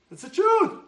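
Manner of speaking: high, loud declaration; emphatic. Real, not acted. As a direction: proclaim it as truth. Emphatic repeat.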